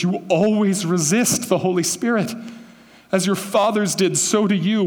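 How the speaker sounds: earnest, pleading rebuke. Shown as a demonstration. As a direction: beg them to see what they've done. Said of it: "I think he's pleading".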